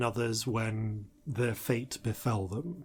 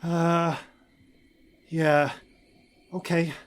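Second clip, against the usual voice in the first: maintenance woman voice; 5 semitones higher than usual. Acted. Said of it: "is Tully Scourer, uh, the human woman".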